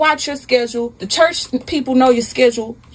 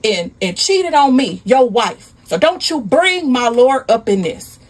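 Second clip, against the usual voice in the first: higher-pitched acted scolding; indignant rebuke; 4 semitones higher than usual. Wife rebuking her cheating husband, indignant. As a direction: scold in rolling, repeated accusations.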